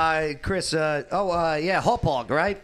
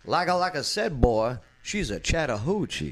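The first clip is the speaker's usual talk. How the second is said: put-on Southern accent. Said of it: "But in Southern".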